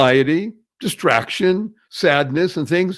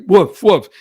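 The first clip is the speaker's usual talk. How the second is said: barked woof woof, louder; mock dog bark; 3 semitones higher, 7 dB louder than usual. Host imitating a dog to picture fear, mock barking.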